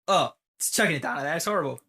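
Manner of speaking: mildly exaggerated British moan; griping Brit. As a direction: moan about the rain. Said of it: "I went".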